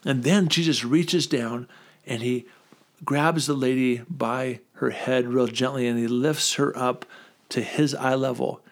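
a touch of tender slow narration; gentle storytelling. Retold or imitated. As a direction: ease into it like a Sunday-school teacher. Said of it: "she said".

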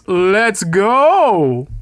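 hyping the fans in the arena; hype call. Acted. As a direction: pump up the crowd.

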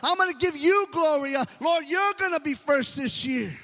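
fervent vow. Pretend. Congregation's vow to the Lord.

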